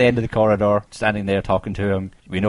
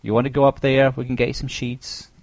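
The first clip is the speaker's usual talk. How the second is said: high mock soothing; 6 semitones higher than usual. Claire soothing creepy guest, retold.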